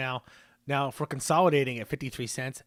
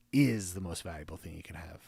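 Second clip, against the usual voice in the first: whisper; 7 semitones lower, 3 dB quieter than usual. Real, not acted. Dramatic whispered punchline on freedom.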